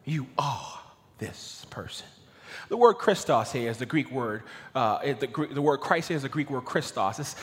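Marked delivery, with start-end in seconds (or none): 0.0-2.1 slow, soft, with a weighted, drawn-out "are"; emphatic. Acted. Peter leaves Jesus in no doubt, emphatic stress on "are". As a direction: separate the words, leaning on "are". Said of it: "It was emphatic".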